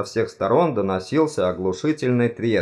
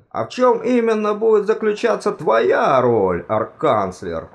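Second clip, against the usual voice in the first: higher, needling question; bared-teeth challenge; 11 semitones higher, 4 dB louder than usual. A narrator's reading. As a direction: challenge the leader, slowing on the title. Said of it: "оскалился декан". (язвительный вопрос с оскалом)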